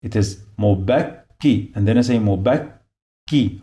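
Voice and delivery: "mubakki" broken between the two Ks; doubled K. Shown as a demonstration. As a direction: close on "bak", pause, say "ki". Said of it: "this letter two times".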